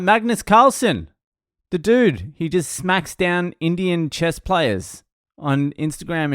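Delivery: high-pitched incredulous explaining; exasperated insistence. Retold or imitated. Comic explains his reference to blank faces, exasperated and insistent.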